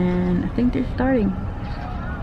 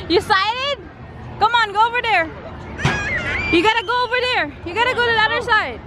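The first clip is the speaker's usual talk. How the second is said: high sing-song urging; 12 semitones higher, faster than usual. Real, not acted. Urging child on the ride.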